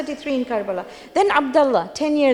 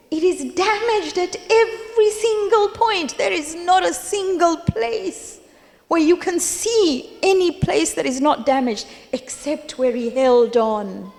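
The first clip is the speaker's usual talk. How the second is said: higher-pitched, emphatic amazement; retold astonishment; 4 semitones higher than usual. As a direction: voice lifted high in retold disbelief, settling at the end. Retelling ruler's astonishment at the flag.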